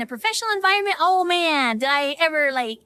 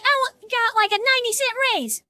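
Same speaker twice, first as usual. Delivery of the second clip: high-pitched mock griping; hammed-up, aggrieved whine; grumpy complaint; 7 semitones higher than usual. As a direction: imitate a coworker moaning about pay. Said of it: "he's all grumpy too".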